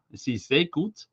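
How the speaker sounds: put-on light German accent on sehr gut; playful hint of German; mock German accent. Greeting a viewer in Germany, in a light mock German accent. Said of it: "Sorry about my accents".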